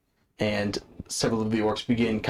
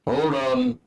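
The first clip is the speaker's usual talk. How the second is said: high sudden call to stop; sharp call; 13 semitones higher, 4 dB louder than usual. Acted. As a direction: stop him cold. Orc stops him.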